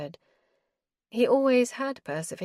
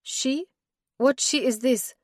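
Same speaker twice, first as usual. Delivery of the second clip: sharp, higher jealous question; 6 semitones higher, 4 dB louder than usual. Acted. Doro jealous of the woman Hemp mentions, sharp and higher. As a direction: demand to know who she is. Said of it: "A jab of unexpected jealousy".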